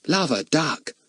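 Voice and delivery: put-on cockney boy. A narrator's reading. Ern's exclamation.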